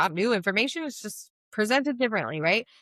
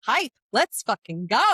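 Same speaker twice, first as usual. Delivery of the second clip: hyped-up; 3 semitones higher than usual. Retold or imitated. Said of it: "the more I get excited about".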